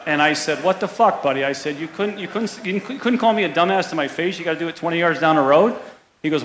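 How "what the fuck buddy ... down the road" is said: retold indignant protest, pitched higher; mock indignant confrontation. Caddie retells confronting heckler who called him dumbass, indignant.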